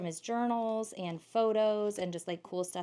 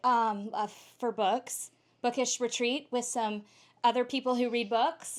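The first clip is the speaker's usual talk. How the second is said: nervous rambling, rushing the words out a bit higher; flustered word vomit; 4 semitones higher, 4 dB louder than usual. Retold or imitated. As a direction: stumble through it like a frazzled tired traveller. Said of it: "I just started word vomiting".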